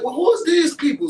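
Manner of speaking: loud, high-pitched challenge; indignant retort. Retold or imitated. Ghetto friend asks about these people, loud and indignant. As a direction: fire back loudly, voice shooting up.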